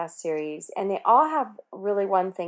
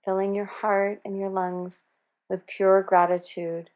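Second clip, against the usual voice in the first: calm meditative tone. Acted. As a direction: ease them into calm breathing. Leads a golden pause meditation.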